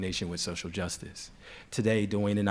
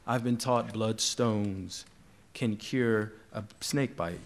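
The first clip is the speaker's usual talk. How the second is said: slow, measured verse recital; poem reading. Acted. Poet reads a colleague's post-colonial love poem to an audience, slow recital. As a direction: linger on each phrase of the poem.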